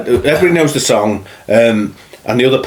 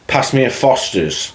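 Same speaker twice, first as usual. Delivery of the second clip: slower Australian accent demo; 3 dB quieter, slower than usual. Shown as a demonstration. Host proving he can do accents, Australian accent. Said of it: "We could do accents".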